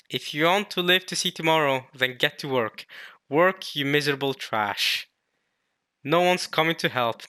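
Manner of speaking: mildly harsh overseer reading; lightly voiced taskmaster. Overseer to starving workers, lightly acted contempt. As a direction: order them to work, a touch forceful. Reads manga oppressor's lines.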